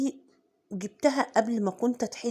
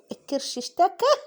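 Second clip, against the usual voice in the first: laughing; 8 semitones higher than usual. Real, not acted. Belly complaint repeated laughing.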